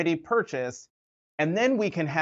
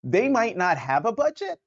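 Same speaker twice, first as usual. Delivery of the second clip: surprised; 9 semitones higher than usual. Real, not acted. Stunned follow-up question.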